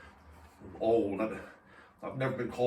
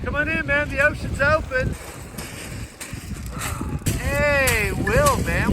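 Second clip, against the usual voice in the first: high voice; 10 semitones higher than usual. Acted.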